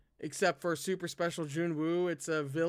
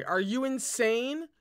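louder, higher, slower outburst; furious demand; 5 semitones higher, 3 dB louder, slower than usual. Acted. Shi Lian demands of Junwu in fury. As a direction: throw the question at him in a rage. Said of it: "going to go mad from fury".

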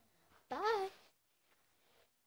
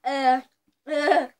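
laughing; 4 dB louder than usual. Real, not acted. Tasting dog food bean.

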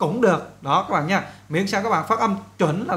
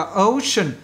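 British pronunciation; 2 semitones higher than usual. Shown as a demonstration. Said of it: "Người Anh đọc là".

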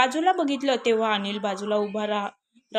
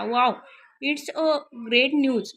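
a touch of bright delight, drawn out; happy; 4 semitones higher, 3 dB louder, much slower than usual. Acted. Anil telling his mother he is glad, mildly excited. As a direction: savour the good news. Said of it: "हे ऐकून अनिल खुश होत म्हणाला".

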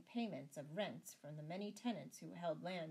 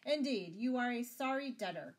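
high, loud cry of relief; relieved cry; 6 semitones higher, 10 dB louder than usual. A narrator's reading. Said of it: "cried the abbot with a great sigh of relief".

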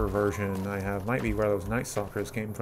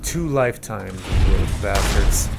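louder battle cry at the enemies; rally yourself loudly to attack; defiant yell; 4 dB louder than usual. Real, not acted. Player charges the enemies, shouting defiantly.

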